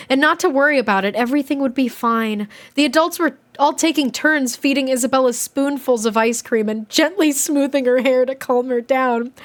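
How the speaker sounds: animated diary read-aloud; expressive storybook reading with swooping tune; story narration. A narrator's reading. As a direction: read a kid's diary with lively emphasis.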